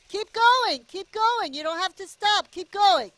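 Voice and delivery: high, loud urging. Real, not acted. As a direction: cheer the driver on. Urging a cart driver.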